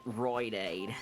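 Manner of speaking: Roid Aid said slowly with a broad Australian oi vowel; thick Australian accent. Retold or imitated. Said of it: "that's just a thick Australian accent".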